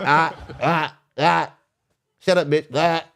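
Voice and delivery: put-on high, taunting childish noises; mock squeals with a laugh in them. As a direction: heckle her like a bratty kid. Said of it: "I get childish with you".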